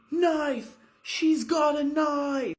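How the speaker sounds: loud, high alarmed shout. Acted. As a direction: yell the warning at the top. Cops burst in shouting.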